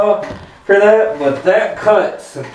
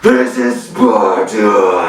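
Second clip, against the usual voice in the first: Spartan battle cry; 5 semitones lower, much slower than usual. Acted. Movie battle cry quote.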